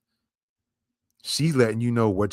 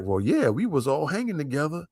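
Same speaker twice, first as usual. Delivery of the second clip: lightly voiced officer, pitched higher; imagined worried officers; 4 semitones higher than usual. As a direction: imitate officers fretting together, voice raised in pitch. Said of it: "some of them's gonna be like".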